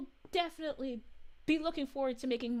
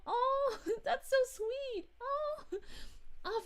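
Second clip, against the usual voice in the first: laughing; 10 semitones higher, slower than usual. Real, not acted. Touched by a viewer's comment.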